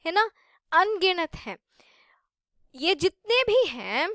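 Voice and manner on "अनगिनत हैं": अनगिनत whispered with no voice. Shown as a demonstration. Teacher whispers to students how countless the words are. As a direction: breathe अनगिनत हैं out as a secret.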